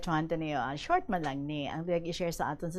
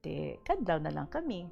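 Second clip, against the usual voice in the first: steady radio reading of a letter; on-air letter read. Acted. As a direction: read the listener's letter to the audience. Host reads listener's letter on air.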